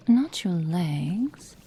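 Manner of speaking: usual speaking voice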